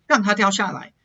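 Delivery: 让它 said with 它 sounding like na. Shown as a demonstration. Teacher showing assimilation, 它 in 让它 sounding like na. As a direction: blend 它 into the end of 让, almost rang-na. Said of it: "hear my ta kind of sounding like a na".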